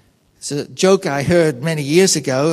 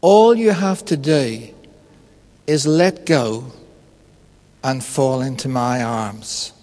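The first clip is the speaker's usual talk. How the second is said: voice of God; 5 semitones lower than usual. Retold or imitated. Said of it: "a voice comes to him".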